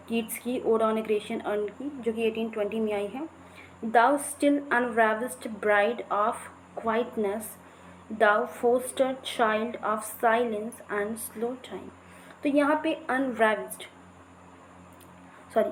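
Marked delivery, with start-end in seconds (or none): 3.9-11.9 slow, measured reading of verse; poem recitation. Shown as a demonstration. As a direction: read each line slowly, like a poem. Reads Keats poem aloud. (धीमा कविता पाठ)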